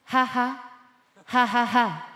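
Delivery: mock ha-ha, spoken out syllable by syllable; forced laugh. Shown as a demonstration. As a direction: demonstrate a laugh that will not come. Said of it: "I cannot go".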